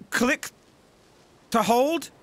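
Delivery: ordinary talk, nothing marked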